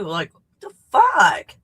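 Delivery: loud, slow exasperated cry; frustrated outburst. Real, not acted. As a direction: let it burst out in frustration. Frustrated outburst about the question.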